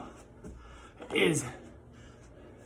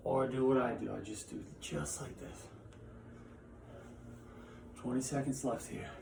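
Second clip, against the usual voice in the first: softer, breathless coaching mid-workout; out of breath; 7 dB quieter than usual. Real, not acted. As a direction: push the words out between reps. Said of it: "so I'm just gonna talk being out of breath the whole time".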